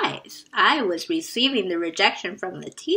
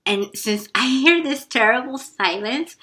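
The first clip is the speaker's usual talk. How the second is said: ordinary delivery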